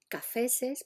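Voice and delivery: "cafeses" with the extra -ses stressed; popular plural. Shown as a demonstration. Teacher showing a popular plural form. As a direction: present "cafeses" as a quoted oddity. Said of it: "escuchar plurales del tipo".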